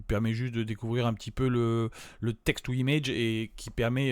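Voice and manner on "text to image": English term in his French accent. Real, not acted. Vlogger naming the tool to viewers, French-accented English. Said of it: "j'ai un bel accent anglais".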